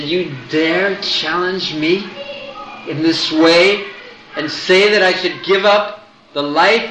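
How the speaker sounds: rising, indignant challenge; a hero's fiery rebuke; fiery anger. Acted. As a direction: raise the pitch in outrage. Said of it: "very fiery by nature".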